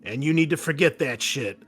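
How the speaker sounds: furious commanding officer rallying troops; barking officer. Acted. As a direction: push the squad hard, then demand an answer. GM officer voice continues.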